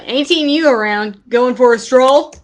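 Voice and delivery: a folksy old neighbour, gently voiced; old man NPC.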